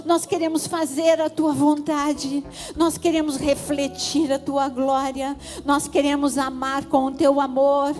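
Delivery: loud, high pleading prayer; impassioned prayer. Acted. Pastor leading the congregation in prayer, loud and high. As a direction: plead with God for the church.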